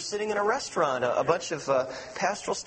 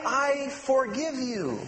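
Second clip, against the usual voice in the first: sincere forgiveness; 5 semitones higher, much slower than usual. Shown as a demonstration. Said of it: "And really mean it".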